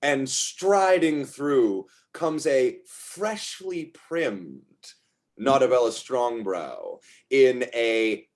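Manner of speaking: slow, dramatic entrance narration; game master's scene setting. Acted. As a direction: draw out each phrase to announce a grand entrance.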